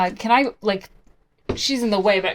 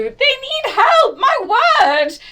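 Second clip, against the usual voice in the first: high, loud, slow call for help; high loud slow urgent call; 10 dB louder, slower than usual. Acted. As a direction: call across to the two. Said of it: "call to these two".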